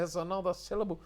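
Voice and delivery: mock Norfolk stretch; Norfolk accent. Shown as a demonstration. Speaker mimics a Norfolk local, light Norfolk accent. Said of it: "They'll go".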